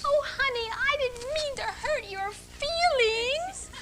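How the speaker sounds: put-on high, slow, cutesy girlish voice; high cutesy baby talk; little girl voice. Shown as a demonstration. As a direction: play the sugary little girl to a man. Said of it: "we play Little Miss Muffet".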